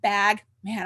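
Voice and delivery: ordinary talk, nothing marked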